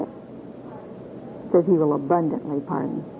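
abundantly pardon drawn out, slow, every word weighed; slow emphasis on abundantly. Shown as a demonstration. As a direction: lean into abundantly and let it land slowly. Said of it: "Don't you love that word?".

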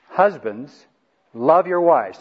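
final hammering repeat on "love"; emphatic command. Real, not acted. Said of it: "Three times it says this".

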